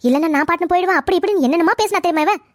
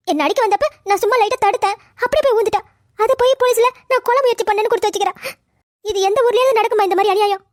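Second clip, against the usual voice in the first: wounded protest breaking into sobs at the end; mildly tearful, aggrieved mother; tearful complaint. Acted. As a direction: plead your innocence, on the edge of crying. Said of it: "அம்மா, அழாதீங்கம்மா".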